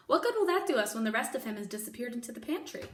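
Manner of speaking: fast angry shout. Acted. The angry cook shouts at Mig about the escape. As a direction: rattle it off in anger. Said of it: "shouted cook".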